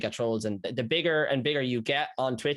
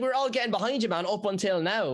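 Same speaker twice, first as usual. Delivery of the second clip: mock outrage; 7 semitones higher than usual. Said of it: "It's like".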